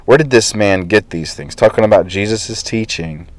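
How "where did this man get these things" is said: lightly sarcastic doubting question; skeptical sarcasm. Retold or imitated. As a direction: scoff at where he got it. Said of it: "with skepticism and sarcasm".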